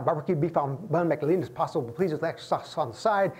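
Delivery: quick rattled-off order, no pauses; rattling off an order. Retold or imitated. Customer racing through an order at the counter, fast. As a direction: fire the order off like a regular who knows it. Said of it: "you gotta get it down".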